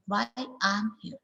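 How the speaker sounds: "I'm" reduced, unstressed; weak I'm. Shown as a demonstration. Teacher modelling weak "I'm". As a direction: let "I'm" slide weak. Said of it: "I'm is a weak here".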